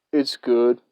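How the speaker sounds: a long dead pause, then a flat "It's good."; mimicking the weird guy's slow response; long pause before speaking. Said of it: "why I paused there".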